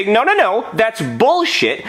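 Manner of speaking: comic indignation, stretching the curse; indignant protest. Retold or imitated. Acted protest at unfair result.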